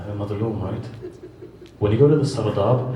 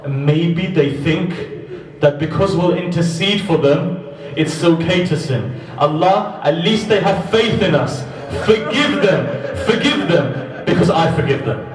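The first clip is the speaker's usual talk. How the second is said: rising, louder pleading prayer; impassioned plea; 8 semitones higher, 5 dB louder than usual. Acted. The Imam pleading to Allah for his Shia, rising intensity. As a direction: beg Allah to forgive them.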